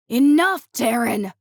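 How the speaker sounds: loud shout, pain and frustration; pained angry shout. A narrator's reading. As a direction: yell it, hurt and furious. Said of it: "laced with both pain and frustration".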